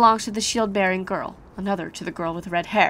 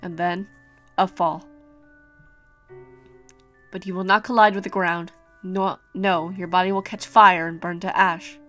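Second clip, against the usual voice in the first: calm ominous prophecy; 2 semitones lower than usual. Acted.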